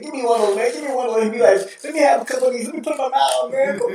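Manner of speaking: Vitale impression. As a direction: savor every word like a hyped announcer. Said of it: "he's like".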